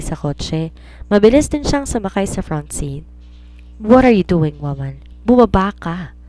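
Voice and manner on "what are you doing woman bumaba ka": angry. Acted. Angry man ordering her out.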